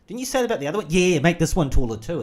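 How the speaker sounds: high, pushy imitation; mock demanding voice. Acted quote of a demanding person.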